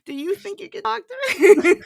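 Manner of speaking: loud laughing mock outrage; laughing shout. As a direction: yell it while laughing.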